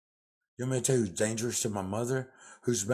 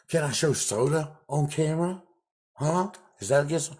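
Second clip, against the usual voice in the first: taunting shout; 6 semitones higher, 5 dB louder than usual. Real, not acted. Taunting rant at caseworker.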